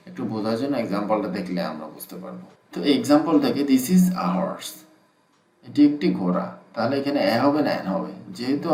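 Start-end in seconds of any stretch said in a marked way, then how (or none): 3.6-4.7 slow, breathy whisper of the sentence; whispered example. Shown as a demonstration. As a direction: whisper each word slowly like a model sentence. Reading example sentence aloud.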